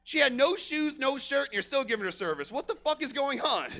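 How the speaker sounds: high-pitched disbelief at the manager; incredulous outburst. Retold or imitated. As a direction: pitch it up, baffled and outraged. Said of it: "I'm like".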